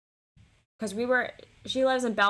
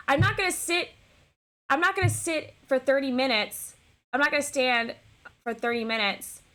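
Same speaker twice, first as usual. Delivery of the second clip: higher-pitched imitation of an annoyed date; indignant refusal; 4 semitones higher than usual. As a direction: retell his refusal, starting high. Retold angry refusal by date.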